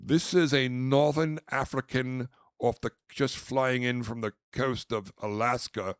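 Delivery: mock-grand sales spiel; pretend caviar connoisseur. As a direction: present it showily, landing loud on the last word.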